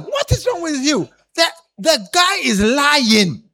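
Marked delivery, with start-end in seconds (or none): 0.0-1.1 shouted rebuke. Shown as a demonstration. Preacher shows the congregation how to rebuke a neighbor, shouting. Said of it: "Tap them".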